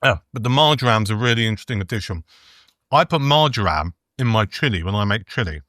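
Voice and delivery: talking through a mouthful; chewing while speaking; mouth full. Real, not acted. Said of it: "Sorry, I'm talking my mouthful".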